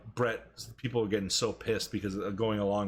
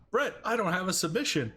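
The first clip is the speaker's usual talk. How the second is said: mock panic; 8 semitones higher than usual. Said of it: "Austin was freaking out".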